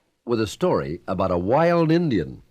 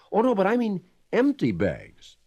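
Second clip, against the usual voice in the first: put-on boy's voice; 11 semitones higher than usual. A narrator's reading. Boy's voice in story.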